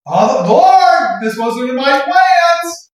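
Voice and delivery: drawn-out mock lament; hammed-up plaintive plea; complaining to God. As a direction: wail it slowly in prayer.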